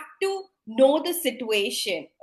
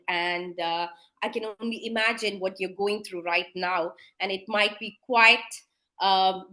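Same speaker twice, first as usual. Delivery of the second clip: calm, sincere doctor; 3 semitones lower than usual. Shown as a demonstration. Doctor calming an anxious wife before bad news, reassuring. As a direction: settle a distressed relative gently. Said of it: "That's how you have to prime the patient".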